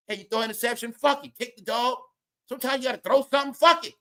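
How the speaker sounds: building to a hammed-up shout; fast, rising into a yelled fuck it; mock coach hyping the Cowboys; mock pep talk. Mock Tom Brady pep talk.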